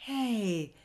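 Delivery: high, slow call stretching the name; glad call. A narrator's reading. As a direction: hail him across the yard. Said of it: "gridò lo studente".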